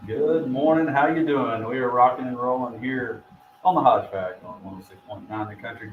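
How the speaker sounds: upbeat radio show opener; radio host. Acted. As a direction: read it like a morning radio host.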